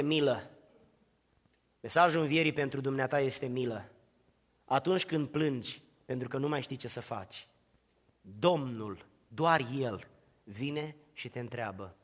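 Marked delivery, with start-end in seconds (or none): 4.6-11.9 much softer, lower, gentle; soft, tender pastoral voice. Acted. Preacher to grieving listener, tender and soft. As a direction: comfort the one who weeps.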